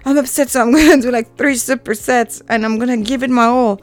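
mock the angry lifter who turns rage into reps; imitating a fired-up gym type, fast and loud; pumped gym person. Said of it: "I'm not one of those persons like".

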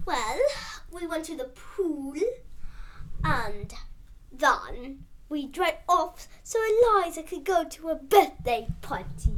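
attempted British accent, halting; British accent drifting toward Australian; put-on British accent. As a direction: tell it in a wobbly British accent. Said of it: "if you're speaking British or Australian".

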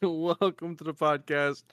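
slow podcast host welcome; interviewer voice. Acted. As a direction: welcome them like a radio host. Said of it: "like, the narrator voice".

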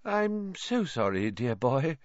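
a lightly voiced dreamy seer. Trelawney just woken, apologising to Harry dreamily. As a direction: drift back as if waking. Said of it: "she said dreamily".

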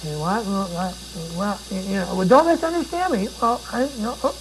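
hesitant, fumbling repetitions; lightly stammered nervous fumbling; mock stammering. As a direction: act out a flustered Christian caught off guard. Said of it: "stutter and stammer".

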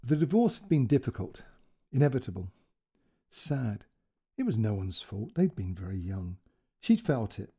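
expressive storytelling with deliberate pauses; story narration. A narrator's reading. Narrator tells of Claire's divorce and daughter, storytelling. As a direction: dwell on key words as you tell the tale. Reads a second story aloud.

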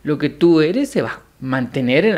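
ordinary talk

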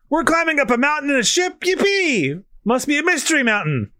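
high and eager, a bit fast; excited Luffy voice. Acted. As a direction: cheer it like a kid on an adventure. Voicing Luffy's excitement from manga.

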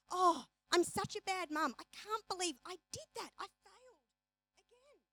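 high self-pitying whine fading to nothing. Retold or imitated. Someone berating herself, fading self-pity. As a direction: whine it, then trail off. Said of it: "we go".

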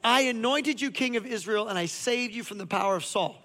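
preaching God's words with a lifted voice; God speaking. Acted. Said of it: "He says".

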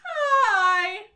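high, loud happy shouting; excited cheering. Real, not acted. Cheering a big announcement.

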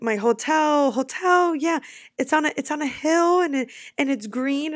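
high, loud desperate explaining. Retold or imitated. Lost tourist to the cab driver, loud desperate explaining. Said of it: "And I'm like".

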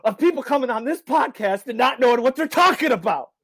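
high, loud fake indignation; mock outrage. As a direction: play the offended host.

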